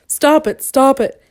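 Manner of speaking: high, loud, helpless shout; desperate high-pitched protest; pleading cry. A narrator's reading. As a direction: cry out as if tickled beyond bearing. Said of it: "he cried".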